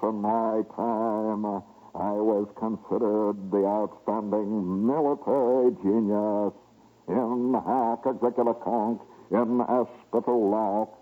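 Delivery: solemn ghostly general. Retold or imitated. Hannibal's spirit answering.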